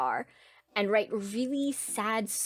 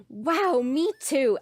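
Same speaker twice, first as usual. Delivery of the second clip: mock delighted reply; 4 semitones higher, 3 dB louder, much slower than usual. Acts instant best-friends reply.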